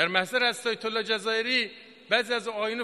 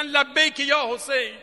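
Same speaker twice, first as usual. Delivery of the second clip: slow, mildly raised pledge; retold rallying cry; 4 dB louder, slower than usual. Preacher voicing the martyrs' answer, slow rallying cry. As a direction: answer the call with a drawn-out cry. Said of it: "فریاد زدن".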